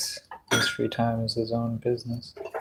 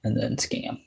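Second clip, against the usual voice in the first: hushed pleading whisper; 8 dB quieter than usual. Retold or imitated. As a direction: whisper it, begging. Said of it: "It's like".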